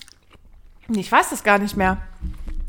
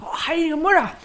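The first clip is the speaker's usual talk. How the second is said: eating sour candy; 5 semitones higher than usual. Real, not acted.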